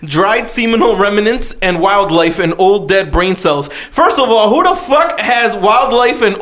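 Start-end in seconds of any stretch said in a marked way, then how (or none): 0.0-3.7 slow, deliberate ad read; flyer read-out. Acted. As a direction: read the spa ad out slowly, item by item. Reads a spa flyer aloud.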